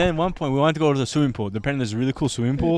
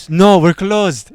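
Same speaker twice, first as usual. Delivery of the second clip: slow, loud flat no; curt refusal; 4 semitones higher, 8 dB louder, much slower than usual. Retold or imitated. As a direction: shut them down slowly. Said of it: "And he's like".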